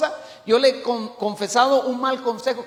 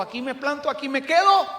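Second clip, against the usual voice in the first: determined declaration climbing in pitch; acted resolve; 4 semitones higher than usual. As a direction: dig in, rising to the final word. Acts out Paul's firm decision. (determinación actuada, con tono ascendente)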